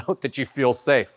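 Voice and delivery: ordinary talk, nothing marked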